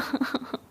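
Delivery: soft, breath-only fake sobs; childish mock crying. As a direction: whimper like a sulking child. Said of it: "क्या बच्चों की तरह रो रही हो". (बच्चों जैसा सिसकना)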